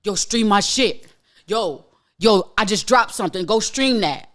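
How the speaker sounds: imitating a pushy artist begging for streams; mock pushy rapper. Mock rapper pestering for streams, pushy. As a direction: hype it up like a rapper chasing streams. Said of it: "to be like".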